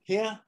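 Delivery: high, rising "here"; drawled here. Shown as a demonstration. Explaining the Southern "here" at the end of sentences, drawled. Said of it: "the word here".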